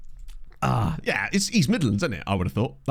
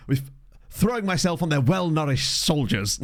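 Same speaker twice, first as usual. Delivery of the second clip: slow, deliberate rugby player impression; Max Laheath; 3 semitones higher, slower than usual. Rugby player giving a grand interview, slow imitated delivery. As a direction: savour each grand word slowly. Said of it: "that rugby player where he's just like".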